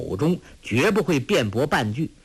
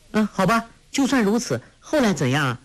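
put-on high, eager girl's voice; lively young girl; 10 semitones higher, faster than usual. Girl urging the old monk to go on, high and eager. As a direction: play a bright teenage girl pressing for more.

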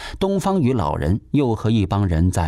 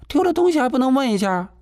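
high, quick indignant comeback; indignant snap; faster than usual. Acted. Landlady snapping at the son, high and fast. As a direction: fire it back fast and high.

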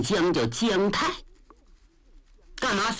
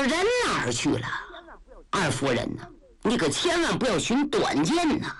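anxious, frantic. Acted. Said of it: "把郑坤给急的".

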